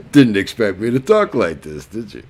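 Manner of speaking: imitated Southern twang; Southern accent. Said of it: "like, a very Southern accent".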